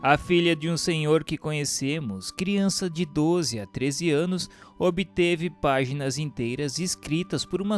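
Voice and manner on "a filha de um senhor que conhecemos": plain reading voice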